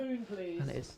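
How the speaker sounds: hushed whisper into an ear. Real, not acted. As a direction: whisper it close so nobody hears. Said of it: "so I'm gonna whisper it".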